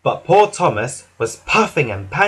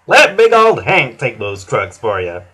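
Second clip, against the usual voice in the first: louder, hearty big-engine voice; friendly Hank; 3 semitones lower, 6 dB louder than usual. A narrator's reading. Hank offering the trucks, hearty and loud. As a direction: offer help with easy confidence. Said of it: "smiled Hank".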